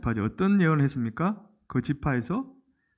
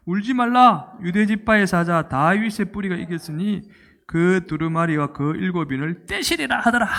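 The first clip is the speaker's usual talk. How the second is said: scripture proclamation; 3 semitones higher, 4 dB louder than usual. Acted. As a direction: lead the congregation in declaiming the verse. Leading the verse read aloud.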